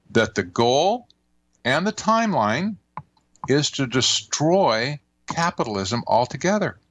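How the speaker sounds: pointed retelling, broken into deliberate phrases. Retold or imitated. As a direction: drive each phrase home with pauses. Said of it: "she says very pointedly".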